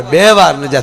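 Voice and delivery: ordinary delivery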